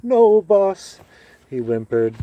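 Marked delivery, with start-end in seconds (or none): 0.0-1.0 high, whimpering servant voice, much higher and louder; mock whimper of a cowed slave; cowering slave imitation. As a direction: cringe and beg like a beaten-down servant. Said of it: "did his beaten-down slave imitation".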